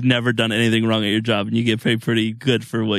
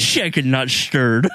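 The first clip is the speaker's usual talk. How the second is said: Sean Connery; 3 semitones higher, much slower than usual. Retold or imitated. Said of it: "a Sean Connery lisp".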